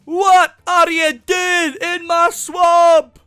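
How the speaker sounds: loud slow ogre roar; Shrek shout. Retold or imitated. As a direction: bellow at the intruder. Shrek impression.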